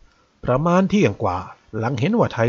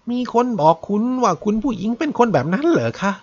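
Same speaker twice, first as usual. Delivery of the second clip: put-on lightly raised voice of an offended elderly maid; a mildly higher, defensive old maid; maid Aki; 6 semitones higher than usual. Aki the maid answers the detective. (เสียงหญิงรับใช้ชราที่ขุ่นเคืองเล็กน้อย)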